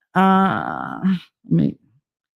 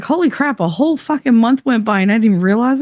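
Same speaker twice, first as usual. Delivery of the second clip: retold shock; 5 semitones higher, faster than usual. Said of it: "I was like".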